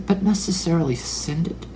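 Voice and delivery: skeptical question. Shown as a demonstration.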